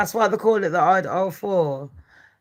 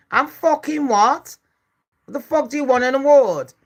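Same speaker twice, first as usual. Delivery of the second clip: real angry rant; 3 semitones higher than usual. Real, not acted. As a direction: snap back at him, fed up and furious. Ranting at a chat troll.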